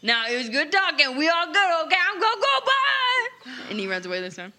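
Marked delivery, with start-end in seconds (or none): 0.0-3.3 rising to a high, hurried goodbye; hasty escape. Acted. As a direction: babble a goodbye while bolting away. Character hurries off to escape talk.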